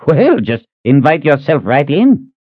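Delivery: mild sarcasm. Acted. Reuben sarcastic.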